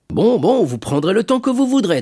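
high, loud breezy assent; genial shipowner. Acted. Shipowner grants Dantès his leave, genial. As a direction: wave the request through generously.

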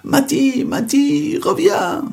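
very high frightened cry for help; panicked calling. Acted. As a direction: wail for the spirit to come back. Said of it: "il se met à hurler".

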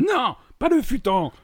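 high, loud, drawn-out wail; hammed-up drunk dreading the punishment; horrified protest. Ivrogne supplie, refuse le futon. (protestation criée, aiguë et traînante)

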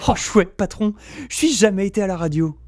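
excited. Acted. Eager sidekick.

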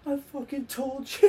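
high, loud slow gloat; gloating shout. Retold or imitated. Telling friends he called the comeback, gloating shout. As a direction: rub it in with a slow yell.

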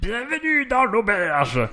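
high, slow, booming tavern-keeper greeting; innkeeper welcome. Retold or imitated. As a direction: welcome them like a jolly fantasy innkeeper. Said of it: "Il parlait comme ça".

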